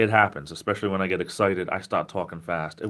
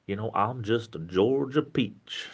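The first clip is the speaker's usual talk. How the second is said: slow Georgia drawl; 3 semitones higher, slower than usual. Retold or imitated. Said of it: "She talked very slow".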